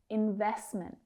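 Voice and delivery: "Investment" with both T's held back, no aspiration; stop T sounds. Shown as a demonstration. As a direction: say "Investment" without releasing air on the T's. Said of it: "don't need to let go of the air".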